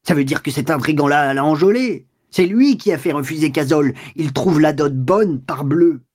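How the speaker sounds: a touch of angry shouting; understated rage at the suitor; mild furious shout. Acted. Walter ranting to his wife, mildly angry. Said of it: "Walter cria, furieux".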